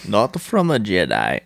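lightly voiced slow villain; a hint of sinister impersonation; Sidious impression. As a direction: quote the emperor slowly. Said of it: "Can you do the Sidious voice?".

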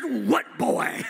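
short, firm reply from Jesus; Jesus answering. Retold or imitated. Jesus answering the boy who calls from the shore. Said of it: "I said".

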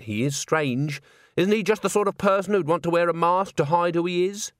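earnest voice climbing to a pleading question; insistent young woman. Acted. Agnes insists Walter could be the ghost, earnest and pressing. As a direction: keep pressing the case, self-correcting as you go.

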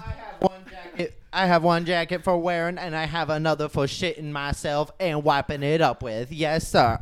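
lightly stiff stand-up impression; robotic comic impression. Friend doing Scat Williams bit, robotic impression. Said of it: "your impression sounds like a black robot".

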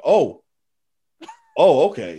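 flustered cop. Retold or imitated. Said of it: "And the officer's like".

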